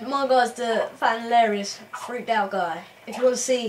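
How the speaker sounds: put-on copying his mate's London accent; fake chav voice. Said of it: "Mate, why are you talking like me?".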